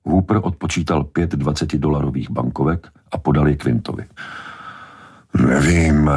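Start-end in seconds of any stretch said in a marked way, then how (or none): 5.3-6.1 drawn-out, hesitating reply; hesitant. A narrator's reading. Quint weighing the money offer, hesitant. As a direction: weigh it up aloud, unsure. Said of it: "váhal Quint".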